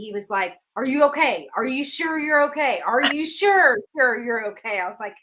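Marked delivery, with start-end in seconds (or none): 0.8-4.8 insistent, higher-pitched worried questioning; retold concern, pushing on the repeats; serious concern. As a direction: imitate someone earnestly checking, pressing harder each time. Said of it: "so serious".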